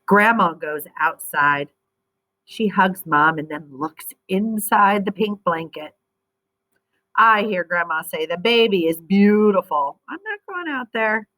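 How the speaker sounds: lively storybook reading voice; expressive read-aloud for young readers; reading to children. Acted. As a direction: read it like a picture book to kids.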